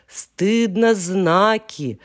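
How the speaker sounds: slow, drawn-out hushing reproach; mock-stern chorus; scolding call. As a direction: call the room to order. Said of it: "закричали гласные".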